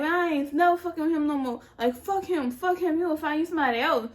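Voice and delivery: imitated defiant talk to herself; bucking herself up. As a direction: replay hyping yourself up after a breakup. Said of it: "talking, like, trying to buck myself up".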